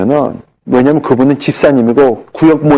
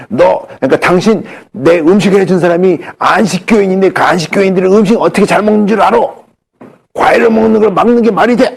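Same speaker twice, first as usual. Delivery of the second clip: scolding; 5 semitones higher than usual. Retold or imitated. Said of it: "하면서 막 야단을 치시는 거야".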